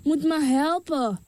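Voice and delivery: mother crying out. Acted. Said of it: "De moeder gilde en zei".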